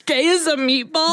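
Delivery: amused, incredulous question; laughing disbelief. Real, not acted.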